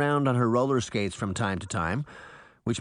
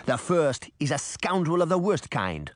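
put-on Caribbean accent; 4 semitones higher than usual. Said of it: "thick Caribbean accent".

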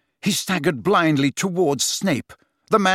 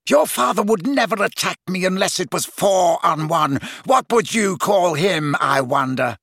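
raised, shouted scorn; angry taunting; 4 semitones higher than usual. A narrator's reading. Snape taunting Harry about his father, angry shout. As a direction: spit out the taunt, drawing out the question.

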